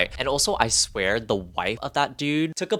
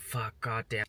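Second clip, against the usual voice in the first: ordinary delivery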